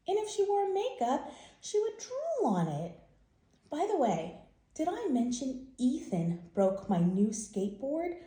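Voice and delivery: put-on brighter child's voice reading his note; kid's letter voice. A boy complaining to his dad, lightly voiced kid. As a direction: play the upset kid writing home.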